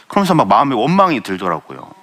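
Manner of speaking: ordinary talk, nothing marked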